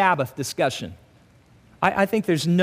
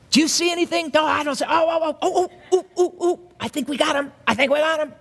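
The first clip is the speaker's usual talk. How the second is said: eager spies; 8 semitones higher, faster than usual. Acted. Preacher acting out spying Pharisees.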